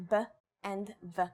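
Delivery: B then V, each a short separate syllable; two letter sounds. Shown as a demonstration. Teacher showing learners Bet is both sounds, sounded out separately. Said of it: "Bet is both".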